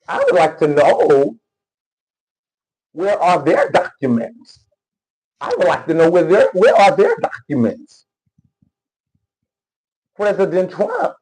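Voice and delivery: put-on a loose, half-hearted Somali accent; lightly faked Somali accent; mock Somali accent. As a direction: mimic her as if you were her, in a Somali accent. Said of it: "This is how she be talking".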